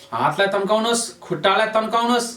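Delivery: high, held-up coaching voice; insistent high stretch cue; urging a stretch. Real, not acted. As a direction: keep the pitch up while the body tenses. Urging a full body stretch.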